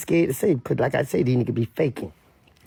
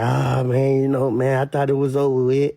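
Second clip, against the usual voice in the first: hammed-up weepy monotone; mock crying; 2 semitones lower than usual. A rapper on the internet thinking it was over, mock crying. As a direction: imitate a fake tearful confession. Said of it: "He cried".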